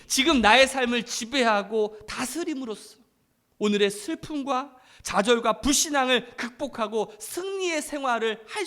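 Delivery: loud, emphatic sermon delivery; impassioned preaching. Real, not acted. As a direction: drive each phrase home to the congregation. Preaches at full force.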